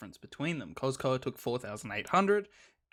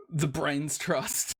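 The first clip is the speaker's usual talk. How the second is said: slow, drawn-out sarcasm; sarcastic; much slower than usual. Real, not acted. Caster citing rumblings from supposed experts, sarcastic. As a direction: stretch it out with slow mock reverence. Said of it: "I say that sarcastically".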